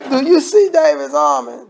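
fired-up preacher asking the crowd; preaching call. Real, not acted. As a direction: call it out to the whole church. Preacher calls out to congregation.

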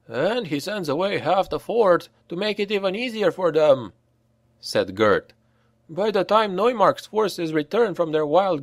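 lightly voiced comrade explaining; Gert's voice. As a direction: finish the thought grimly. Gert adds the grim detail.

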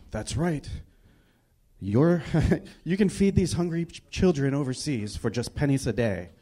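put-on Spanish-accented ad pitch. Commercial guy asking to feed hungry children, mock Spanish accent. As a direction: lightly imitate a Spanish-accented charity spokesman. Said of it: "had a Spanish accent".

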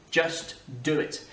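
slow "Just do it."; slow slogan. Retold or imitated. Teacher repeating the slogan slowly. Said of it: "Nike, just do it".

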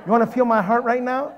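loud, high, worked-up reply; comic shaken outburst; retold panic. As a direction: insist in mock fright. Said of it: "I was scared".

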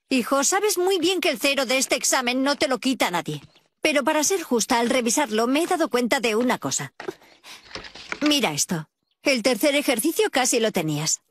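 gentle. Acted. Mother kindly explains the exam.

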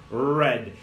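"red" with a growled English R. Shown as a demonstration. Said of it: "cachorro bravo".

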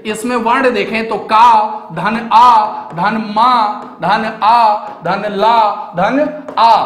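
teacher spelling कमल as in primary school; letter-by-letter breakdown. Shown as a demonstration. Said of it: "कमल में देखिए".

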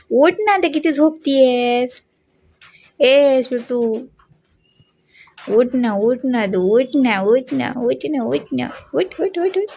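slow, drawn-out sing-song coaxing; coaxing wake-up. Real, not acted. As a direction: nag a sleepy dog to get up. Owner coaxes sleeping dog awake.

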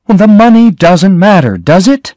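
high, loud and upset, pleading; cried unhappily. A narrator's reading. Lila pleads with the sheriff, high and upset. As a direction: push the words out in distress. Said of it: "Lila cried unhappily".

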